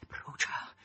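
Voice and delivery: high, slow cries building to a scream; exultant shouting that climbs and stretches; crying out. A narrator's reading. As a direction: start breathy, build to a long high shriek. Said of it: "gridava Margherita".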